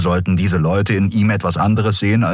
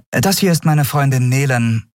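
higher-voiced woman captain, apologetic; Captain Nagun telling Miko she can't pay; 7 semitones higher than usual. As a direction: break it gently.

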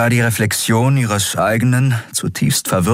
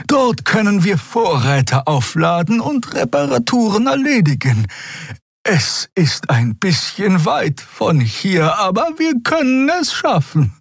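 Xea's voice; 13 semitones higher than usual. A narrator's reading. Xea proposing a hidden refuge to the crew, high and hopeful. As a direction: offer the plan carefully, with rising hope.

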